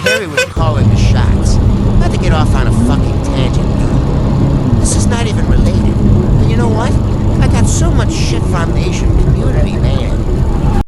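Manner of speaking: loud, heated rant; a worked-up comic rant at full volume; ranting shout. Real, not acted. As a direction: bark it out as an angry rant. Ranting loudly at the crowd.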